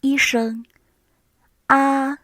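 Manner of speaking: "a" held high and level; first tone. Shown as a demonstration. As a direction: say "a" on a high, flat pitch. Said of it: "take "a" as an example".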